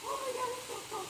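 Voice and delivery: excited. Real, not acted. Friend wading into the falls.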